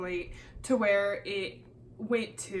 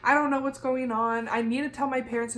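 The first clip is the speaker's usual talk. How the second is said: mildly flustered retelling, pitched up; freaking out; 3 semitones higher than usual. Retold or imitated. Student telling the caller she's done all the paperwork, freaking out. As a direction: protest in a raised pitch, a touch panicked. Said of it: "I'm freaking out talking about this".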